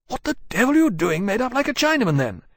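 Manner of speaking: put-on high, loud, fast drunken blurt; a tipsy gentleman gawking at a stranger; drunken outburst. Drunk Sutton Leeds bellows high and fast at Tharkay.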